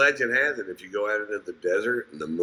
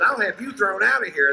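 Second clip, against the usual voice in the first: snooty lady; 10 semitones higher, 3 dB louder than usual. Retold or imitated. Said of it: "She goes".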